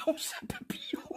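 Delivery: squeaked out through helpless laughter; laughing. Real, not acted. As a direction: voice breaking with laughter. Fou rire, voix qui s'étrangle. (voix étranglée par le rire)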